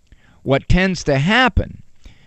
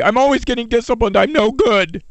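put-on child complaining; 6 semitones higher than usual. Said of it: "some children say".

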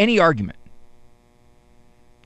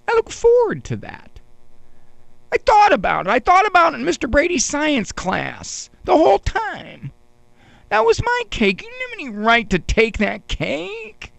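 high, whining plea with a quiver; whiny quiver; 10 semitones higher than usual. Retold or imitated. A boy whining to his sister over his lost cake, quivering. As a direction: whimper it out like a wounded kid. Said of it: "my voice is starting to quiver".

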